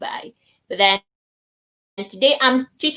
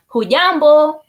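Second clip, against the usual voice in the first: Hujambo said louder and higher; emphatic demo; 5 semitones higher, 6 dB louder than usual. Shown as a demonstration. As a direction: call hujambo out to the class.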